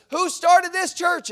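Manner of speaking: slow, loud, high demand; insistent demand. Retold or imitated. Stranger still pressing the preacher, slow loud demand. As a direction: drag it out to insist. Angry man keeps demanding.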